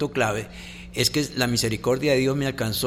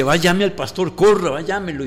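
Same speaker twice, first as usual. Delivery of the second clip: higher and louder, hurried alarm; urgent plea; 5 semitones higher, 6 dB louder than usual. Retold or imitated. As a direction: push it like a mother scared for her feverish baby. Esposa urgida por hijo con fiebre. (súplica urgente, más aguda y fuerte)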